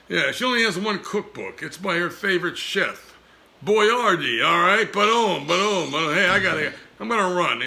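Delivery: Dodney. Acted. Dummy boasting to host, brash puppet voice. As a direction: crow that you're a hero.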